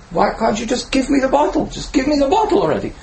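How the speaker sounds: put-on high, whining little boy voice; impatient child. Toddler loses patience with his father over the bottle, high and whiny. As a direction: demand it like a fed-up toddler.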